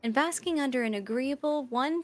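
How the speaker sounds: calm, eerie computer narrator; creepy robot voice. Acted. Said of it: "the creepy robot voice".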